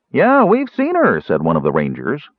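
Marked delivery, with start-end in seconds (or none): 0.1-1.2 raised, drawn-out ranger's voice; hearty tavern ranger. A narrator's reading. Ranger answering a searcher in the tavern, hearty. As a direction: call it across the tavern table, high and slow.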